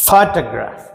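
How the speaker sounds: ఫోటోగ్రాఫ్ stressed on its opening ఫో; stress on first syllable. Shown as a demonstration. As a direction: lean into the first beat of ఫోటోగ్రాఫ్. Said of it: "పి మీదనే పలుకుతాం". (ఫో మీద ఒత్తిడితో ఫోటోగ్రాఫ్)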